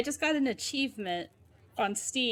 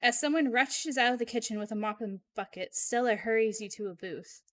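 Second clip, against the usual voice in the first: dramatic game narration; story narration. A narrator's reading. Narrator tells of slime fighting to escape, dramatic narration. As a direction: narrate the rising danger like a storybook.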